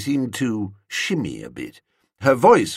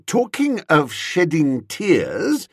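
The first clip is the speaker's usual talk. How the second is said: slow, higher, firm insistence; 8 semitones higher, 3 dB louder, slower than usual. A narrator's reading. Returning to the point with the woman, firm. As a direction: press the subject firmly, slowly. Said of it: "I said firmly".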